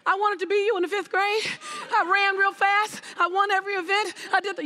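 rushed, breathless fangirl gushing; gushing fan. Retold or imitated. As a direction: blurt it like a starstruck kid. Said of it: "I immediately said".

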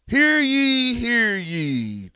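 high, loud proclamation call; town crier. Pretend.

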